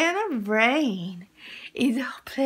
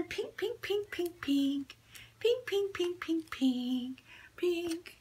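soft sing-song repeats of pink; gentle cooing for the baby, soft; 3 semitones higher, 7 dB quieter, slower than usual. Acted. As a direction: coo the word pink softly to the baby. Cooing colour word to baby.

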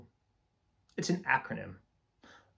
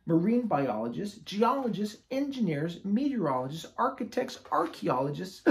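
higher, upbeat list of jobs; lively higher-pitched roll call; eager listing; 5 semitones higher, 3 dB louder than usual. Acted. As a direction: bounce through each profession. Lists featured professions excitedly.

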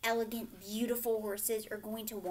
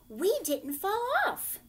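higher, louder relieved cheer; exclaiming; 10 semitones higher, 7 dB louder than usual. Acted. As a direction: kids proudly shouting they made it. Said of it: "the children exclaimed".

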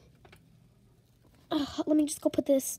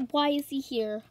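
shocked whisper. Acted. Shocked to see the boy.

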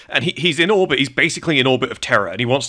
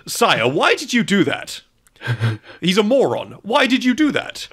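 exasperated; 9 semitones higher than usual. Retold or imitated. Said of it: "his lieutenant on the mic says".

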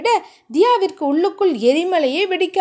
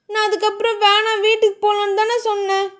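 angry; 6 semitones higher than usual. A narrator's reading. Diya arguing with Dheeran.

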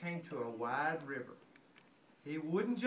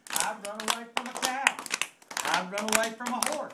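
a louder, taunting chant; boastful shout; 2 semitones higher, 4 dB louder than usual. Acted. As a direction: crow it out like a cheeky runaway. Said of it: "he shouted".

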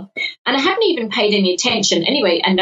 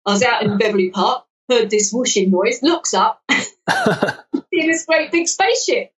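put-on a light South London caller's accent; Richard's accent. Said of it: "okay, I'll do his accent".

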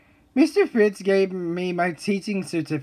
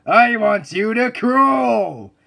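drill sergeant; 3 semitones higher, 3 dB louder, slower than usual. Acted.

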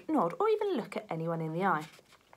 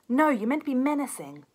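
exasperated; 6 semitones higher, 7 dB louder than usual. Acted. Exasperated detective correcting partner.

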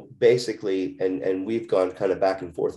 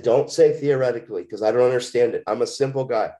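higher-pitched, insistent pushback; retold protest; 4 semitones higher than usual. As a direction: plead for a simple answer, replaying the argument. Retold objection to counselor's hedging.

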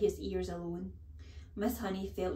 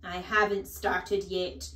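brisk; 5 dB louder, slower than usual. Acted. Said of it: "Trunchbull said briskly".

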